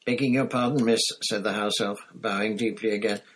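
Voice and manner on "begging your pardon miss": polite elf. Acted. House elf bowing.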